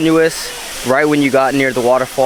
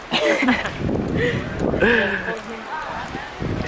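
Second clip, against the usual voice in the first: pterodactyl shriek; 10 semitones higher, 8 dB quieter than usual. Pretend. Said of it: "Did I do a accurate pterodactyl impression?".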